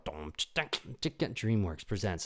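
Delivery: slow grand announcer read; trailer announcer. Retold or imitated. Movie title card, slow grand announcer read. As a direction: intone it like a movie opening. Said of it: "then it goes".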